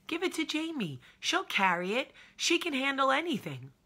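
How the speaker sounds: high, loud mock ad slogan; hammed-up commercial voice. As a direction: sell herself like the cereal ad kid. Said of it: "That's me".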